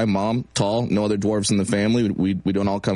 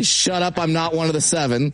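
retold retort to audience; 5 semitones higher than usual.

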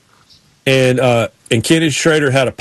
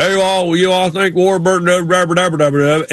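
lightly imitated garbled country talk; Wesley Walls; 3 semitones higher than usual. Player chatting racing with his buddy, lightly mimicked gibberish. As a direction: run the words together into mock gibberish, slightly raised. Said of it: "but Wesley Walls like".

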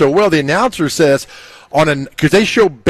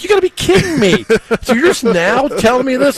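high squeaky disbelief, pitched way up; mock outrage at the news, high-pitched; incredulous; 9 semitones higher than usual. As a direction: act stunned, voice shooting up high. Retold disbelief at Geddy Lee.

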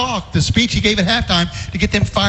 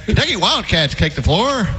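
radio announcer impression; Kay Wood Ledford. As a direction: introduce the team like a radio play-by-play caller. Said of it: "Is that your Kay Wood Ledford impersonation".

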